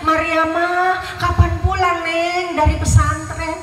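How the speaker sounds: retold calling out. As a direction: call out as the visiting guest, without real shouting. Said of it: "tamunya teriak".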